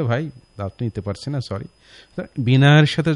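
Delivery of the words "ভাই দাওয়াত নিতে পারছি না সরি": polite refusal. Retold or imitated. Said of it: "বলি যে".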